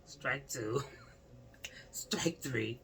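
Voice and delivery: whispered count. Pretend.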